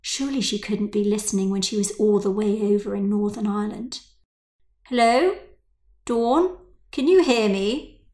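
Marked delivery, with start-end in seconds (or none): 4.9-8.0 louder, raised calls into a silent line; calling out. Acted. Mother calls to silent Dawn on the phone, raised voice. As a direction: call out to get an answer.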